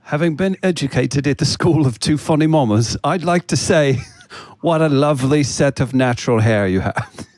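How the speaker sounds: put-on formal British accent; polite, comic British accent. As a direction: deliver a mock speech in British English. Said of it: "I'm in a British accent".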